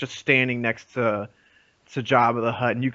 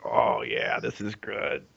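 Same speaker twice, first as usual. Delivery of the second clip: leering hushed aside; pleased whisper; 4 semitones lower, 6 dB quieter, slower than usual. Retold or imitated. Pausing on a sexy scene.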